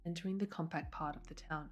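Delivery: soft read-aloud storytelling; story narration. A narrator's reading. Streamer reads viewers to sleep, soft story narration. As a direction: read it softly, as if to sleepy listeners.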